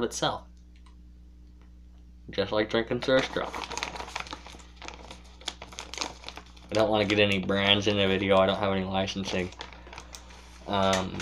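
talking around pipe stem; pipe in mouth. Real, not acted. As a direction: lips clamped on pipe. Seen 0: Tobacco pipe stem held between lips throughout the labelled words.

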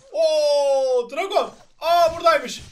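loud high whoop; excited cry. Real, not acted. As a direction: whoop at the sight. Excited cry spotting enemy.

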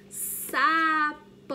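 loud, stretched teacher word; modelling the word for small children; emphatic word demo. Shown as a demonstration. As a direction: present the word big and clear. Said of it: "A palavrinha".

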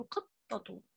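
قطة said slowly with a clear t at the end; teacher shows قطة ending in an audible t; final taa sounded. Shown as a demonstration. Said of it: "فهتتنطق تاء".

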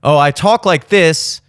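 lightly voiced mock singer; a hint of a put-on singer voice; mild mock of a fake speaking voice; mock singer talking. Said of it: "they don't have a separate singing voice".

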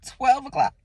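"Twelve o'clock" echoed with a laugh; laughing repeat. Real, not acted. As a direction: laugh it off in disbelief.

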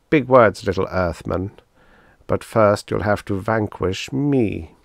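scornful alien, slowing on the threat; taunting alien. Acted.

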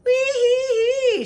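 high, loud laughing whoop; playful high whoop; laughing wee. A narrator's reading. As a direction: laugh back with a squeal. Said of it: "she laughed back".

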